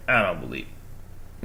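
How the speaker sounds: low, slow doubting viewer; imagined skeptic. Acted. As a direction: drag it out as a disbelieving reply. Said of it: "You're gonna be like".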